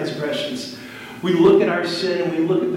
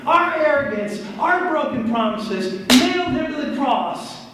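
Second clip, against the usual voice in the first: raised, emphatic sermon voice; impassioned preaching; 8 semitones higher than usual. Real, not acted. Preacher telling congregation Christ died for them, impassioned. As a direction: preach it home, high and weighty.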